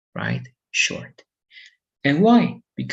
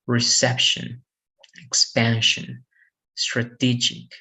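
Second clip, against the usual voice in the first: "Reception, expansion, strategic" each stressed on the second syllable. Shown as a demonstration. Teacher giving examples, "Reception, expansion, strategic" stressed on the second syllable. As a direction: lean on CEP, PAN and TE in "Reception, expansion, strategic". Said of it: "Stress the second syllable".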